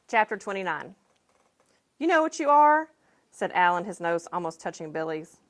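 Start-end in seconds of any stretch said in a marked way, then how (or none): 2.0-2.9 high and loud, right in his face; angry taunt. A narrator's reading. Alan nose to nose with Billy, taunting him angrily. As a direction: spit the challenge at him. Boys' fight begins.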